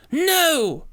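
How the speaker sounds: high piercing scream. A narrator's reading. Witch screaming as Daniel keeps statuette, high shriek. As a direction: shriek in horror. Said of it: "she screamed".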